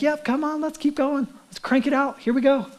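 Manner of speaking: imitating a careless, upbeat priest; breezy going-through-the-motions. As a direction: chivvy them on carelessly. Imitates priests hurrying worship along.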